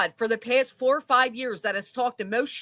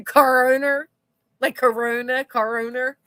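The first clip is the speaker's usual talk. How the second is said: laughing disbelief, louder; laughing incredulous question; 3 dB louder than usual. Real, not acted. Laughing at joke.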